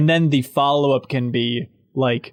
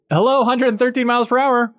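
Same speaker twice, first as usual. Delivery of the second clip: Adam Carolla's radio voice; 9 semitones higher than usual. Shown as a demonstration. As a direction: greet callers like a morning DJ. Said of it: "Your radio voice is really quite good".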